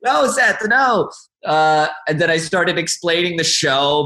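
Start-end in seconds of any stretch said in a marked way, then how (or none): 0.0-1.1 high, laughing "no no" at a friend; mock embarrassed plea; laughing protest. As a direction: protest while cracking up. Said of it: "I was like".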